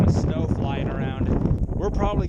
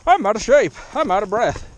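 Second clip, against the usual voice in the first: higher, louder whiny self-mockery; mocking own complaints; 6 semitones higher, 7 dB louder than usual. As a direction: parody your own whining updates. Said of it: "Almost every single update that I've filmed has been".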